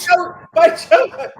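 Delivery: high, loud, slow Texan drawl. Pretend. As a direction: stretch it out like a Texan. Hammed-up Texan twist on the quote.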